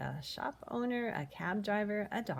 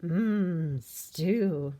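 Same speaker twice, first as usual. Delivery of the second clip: savoring; 9 dB louder than usual. Acted. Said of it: "he sighed".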